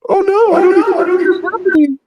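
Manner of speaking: very high chipmunk voice changer; squeaky helium-pitched voice filter; troll voice. Acted. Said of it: "Is that the troll voice?".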